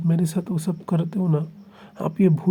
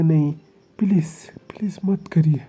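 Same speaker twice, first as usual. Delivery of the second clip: loud, desperate begging; desperate pleading; 2 semitones higher, 6 dB louder than usual. Acted. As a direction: plead frantically to be let go. Wing begging him to stop.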